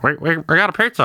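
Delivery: high, fast put-on delivery voice; disguised voice. Player faking a pizza delivery to get in. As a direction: fake a voice to trick him. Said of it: "I'm trying to disguise my voice".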